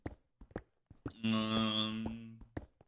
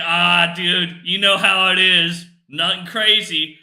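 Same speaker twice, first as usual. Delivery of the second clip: casual bro voice; 6 semitones higher, 14 dB louder, slower than usual. Retold or imitated. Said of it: "it's like".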